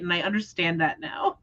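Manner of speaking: a knowing whisper; whispered aside. Real, not acted. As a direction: drop to a whisper, as if sharing a secret. Knowing aside after excited line.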